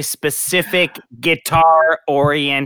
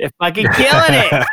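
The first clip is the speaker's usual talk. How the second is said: laughing; 3 semitones higher than usual. Retold or imitated. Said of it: "and I was like".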